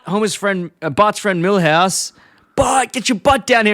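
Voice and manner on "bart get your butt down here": slow, much higher mock yell up the stairs. Milhouse calling for Bart on the phone, mock yell. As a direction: holler it like a kid calling his friend.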